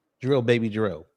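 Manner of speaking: usual speaking voice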